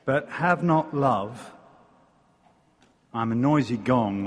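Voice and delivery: solemn Bible reading with long weighty pauses; scripture reading. Acted. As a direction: read it as a sacred text to the congregation, letting each line land. Reads 1 Corinthians 13 aloud.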